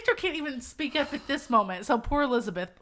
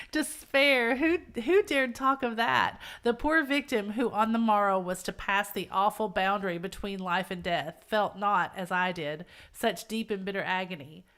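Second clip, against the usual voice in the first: measured gothic reading; story narration; 4 semitones lower than usual. A narrator's reading.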